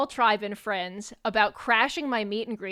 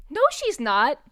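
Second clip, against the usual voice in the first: disbelief; 4 semitones higher, 3 dB louder than usual. Retold or imitated. Retold guy disbelieves she is old.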